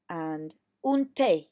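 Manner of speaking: slow, clear model of té; drawn out so pupils can copy; teacher modelling un té slowly; model Spanish. Shown as a demonstration. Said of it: "So say after me".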